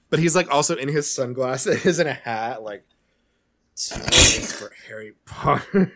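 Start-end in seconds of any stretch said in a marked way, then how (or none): 3.8-5.9 imitating a British star, slipping into a French accent; a hammed-up French accent in place of British; accidental French accent. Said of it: "I'm doing a French one".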